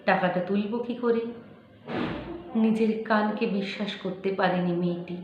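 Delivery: slow, measured dramatic recitation with long pauses; expressive verse reading, unhurried; poetry recitation. Acted. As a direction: recite it like a story-poem, weighting each phrase. Recites a poem.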